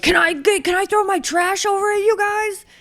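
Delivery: high, bright mock plea; mock racer asking. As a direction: imitate a rider begging to dump his trash. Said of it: "he's like".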